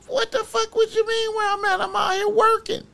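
very high-pitched acted protest; alarmed disbelief. Client answers defender while out working, alarmed. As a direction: squeal it back in mock bewilderment. Retold reply to the panicked call.

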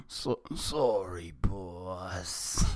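slow, drawn-out apology; sheepish lackey saying sorry; hammed-up remorse, drawing out the words; contrite. Shown as a demonstration. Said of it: "sound more contrite".

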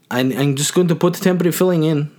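put-on accidental Russian accent. Dentist to patient about temporary filling, Russian accent. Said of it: "I don't know why I went Russian".

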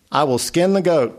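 parched patient, croaking his offer. Acted. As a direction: lightly read croak of a dying man. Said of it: "croaked the parched remnant".

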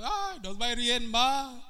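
high, mock-tearful whimper; mock whining. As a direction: whine like a frightened believer. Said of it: "Y ahí están llorando". (lamento burlón, agudo y suave)

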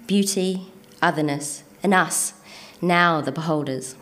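measured spoken-word recital, words set apart; poetry reading. Acted. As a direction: recite it as a poem, letting pauses fall between images. Reads a poem to audience.

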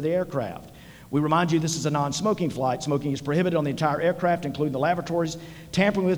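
lightly voiced cabin safety announcement; flight attendant. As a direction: rattle off the safety spiel like cabin crew. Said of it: "let me channel my inner flight attendant".

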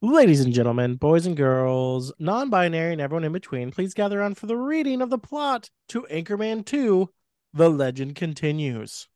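booming circus announcer call; ringmaster. Acted. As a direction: call the crowd in like a showman. Ringmaster announcing the plot reading.

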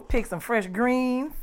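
slow, drifting daydream voice; dreamy country idyll. Pretend. Guest daydreams of Southern life to the host, slow and dreamy. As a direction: savor each word like a peaceful picture. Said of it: "Why did this turn into The Color Purple?".

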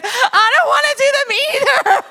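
mock whine. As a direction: echo the son's whining, teasing. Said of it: "I said".

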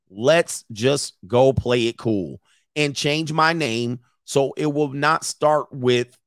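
slow, spaced-out reading of a message; deliberate read-aloud. A narrator's reading. Commentator reads leaked chat to viewers, deliberate read-aloud. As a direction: read it out slowly, word by word.

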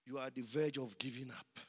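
soft and quick; quiet. Acted. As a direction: say it low and fast, almost confiding. Quiet aside, later shouted.

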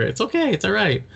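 hammed-up comforting of a flustered cohost; mock soothing. Teasing cohost who pulls her hair, mock soothing. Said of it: "look at you pulling out your hair".

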